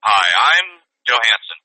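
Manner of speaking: slow, measured TV host voice; deadpan slow host introduction; slowly, like a TV reporter confronting someone; slow TV host intro. Retold or imitated. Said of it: "that guy's name that does the Catch a Predator".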